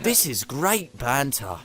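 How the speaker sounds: slow, lightly voiced British gentleman; a hint of very British catchphrase; Alan Partridge. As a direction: savour it slowly like a leaned-back gent. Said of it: "the most British thing you've ever seen".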